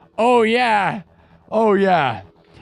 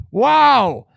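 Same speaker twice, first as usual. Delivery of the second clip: high, drawn-out hype building to a yell; rally the crowd, pitch climbing; hyped; 5 semitones higher, much slower than usual. Real, not acted. Streamer hyping live viewers over the votes, hyped.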